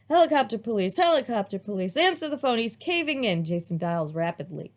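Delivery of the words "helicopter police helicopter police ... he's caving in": mock panic. A narrator's reading. Child calls for help.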